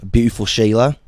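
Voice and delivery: admiring Aussie accent; Australian accent. Shown as a demonstration. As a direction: try an Australian Sheila. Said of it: "Australians are a little lower".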